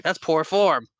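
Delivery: high, loud prim scolding of poor form; Hook's disdain. Retold or imitated. Hook scolding Peter for walking away, prim disdain. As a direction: sniff at it like a fussy pirate captain.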